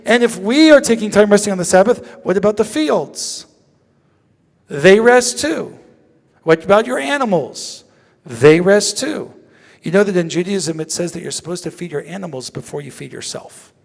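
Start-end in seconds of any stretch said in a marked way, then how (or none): 4.7-5.8 "They rest too." drawn out slowly and louder; slow each word of "They rest too." to land the point; slow emphasis. Real, not acted. Rabbi stressing to students that fields rest, slow and deliberate. Driving home a teaching point. 8.2-9.3 "They rest too." drawn out slowly and louder; slow each word of "They rest too." to land the point; slow emphasis. Real, not acted. Rabbi stressing to students that fields rest, slow and deliberate.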